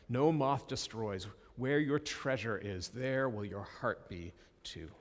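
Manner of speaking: unhurried Bible reading voice; scripture reading. Acted. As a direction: read the passage with weight. Reads scripture passage aloud.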